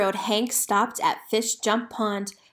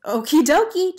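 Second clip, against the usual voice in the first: high, loud cheer; 7 semitones higher, 6 dB louder than usual. Acted. Hank cheering as he throws his hat, loud. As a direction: cheer it out with glee. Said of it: "cheered Railroad Hank".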